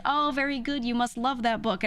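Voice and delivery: high-pitched patronizing teacher praise; imitating an over-sweet teacher; mock belittling. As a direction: gush condescendingly, as if to a small child. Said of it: "they just kept, like, belittling me".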